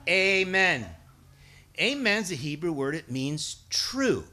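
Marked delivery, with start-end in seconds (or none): 0.1-0.8 loud amen. Pretend. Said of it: "let's get to the amen".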